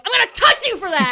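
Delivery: high, loud joking threat; mock threat. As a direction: yell it like a game taunt. Joking gamer threat, shouted.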